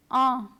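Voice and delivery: Ah as a French nasal vowel. Shown as a demonstration. Teacher models the first nasal sound for students, nasal vowel. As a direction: let Ah resonate through the nose. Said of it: "the ah sound".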